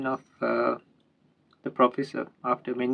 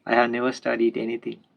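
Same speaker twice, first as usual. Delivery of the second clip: humble reply. Acted. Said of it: "the sailor very humbly said".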